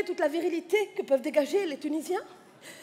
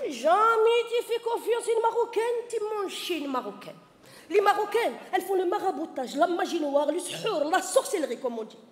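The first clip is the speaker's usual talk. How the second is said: warning mother; 2 semitones higher than usual. Retold or imitated. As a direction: warn like a superstitious mother. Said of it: "maman m'a toujours dit". (maman qui met en garde, un peu lente)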